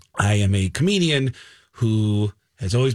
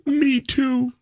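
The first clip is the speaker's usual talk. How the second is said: high, lightly voiced deaf sister; a hint of the sister's voice; 14 semitones higher than usual. Punchline in sister's voice.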